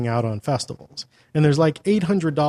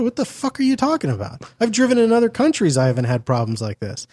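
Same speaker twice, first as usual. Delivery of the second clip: incredulous outburst; 9 semitones higher than usual. Retold or imitated. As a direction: blow up at the Florida claim. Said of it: "I'm like".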